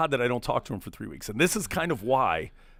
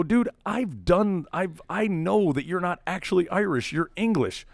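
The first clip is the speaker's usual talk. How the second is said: higher-pitched mock accusation; retold argument; 5 semitones higher than usual. Arguing drunk with a friend about his roots, accusing. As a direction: throw it at him, voice raised in pitch.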